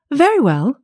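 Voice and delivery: cheerful little pig. A narrator's reading.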